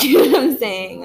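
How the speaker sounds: amused, laughing mid-sentence. Real, not acted. Vlogger checking that viewers follow her, laughing.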